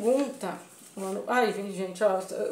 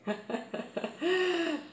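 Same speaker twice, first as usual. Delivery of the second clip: real laugh; 5 semitones higher, 7 dB quieter than usual. Real, not acted. Laughing at the funny scene.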